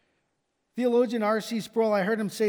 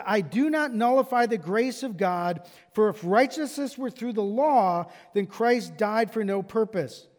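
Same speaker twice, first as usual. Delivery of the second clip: emphatic preaching. Acted. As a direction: drive Paul's words home.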